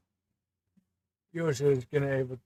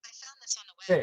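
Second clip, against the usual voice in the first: a higher, assistant-like reply voice; siri voice; 8 semitones higher, faster than usual. Acted. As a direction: answer like a phone assistant.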